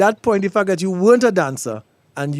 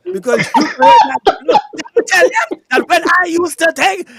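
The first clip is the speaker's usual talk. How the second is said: laughing; 9 semitones higher, 6 dB louder than usual. Real, not acted. Host cracking up laughing.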